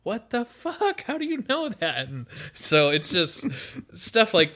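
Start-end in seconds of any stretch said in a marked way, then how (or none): 0.0-2.1 imitating amazed audience. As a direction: drag out the stunned question.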